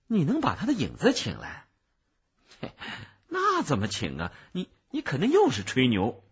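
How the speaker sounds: 音调起伏、带着不信的追问; 像听到吹牛一样惊讶质疑; 惊讶怀疑. Acted. 对方不信能请来影子. (又惊又疑，重音加强)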